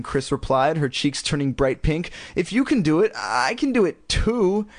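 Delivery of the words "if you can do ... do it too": high, shrill insistence, stretched at the end. A narrator's reading. Girl demanding what her sister has, shrill. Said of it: "she added shrilly".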